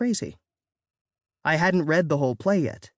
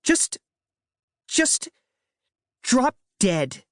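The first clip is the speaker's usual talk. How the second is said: frustrated yell; 8 semitones higher, much slower than usual. A narrator's reading. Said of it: "she yelled and stomped off".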